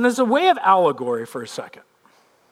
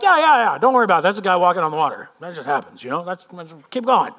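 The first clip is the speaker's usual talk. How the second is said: mock nonchalant; faster than usual. Fisherman to crew about a water-walker, mock nonchalant. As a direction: wave it away casually. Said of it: "they're not going like".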